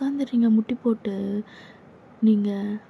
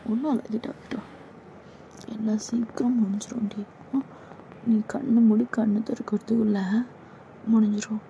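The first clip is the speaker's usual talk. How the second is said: creepy senior whisper; 3 dB quieter than usual. Acted. Senior whispering close to the junior, menacing.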